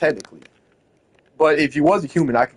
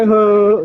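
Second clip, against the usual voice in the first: brief put-on whine, higher in pitch; mock crying; 4 semitones higher, 4 dB louder than usual. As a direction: fake a little cry to make a point. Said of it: "I'm not crying. Am I".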